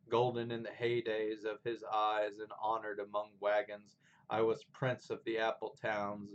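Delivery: declaimed verse, opening loud and strong; poem recitation. Acted. Teacher reading Fern Hill by Dylan Thomas, poem recitation. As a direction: read it as flowing, rolling verse with firm beats.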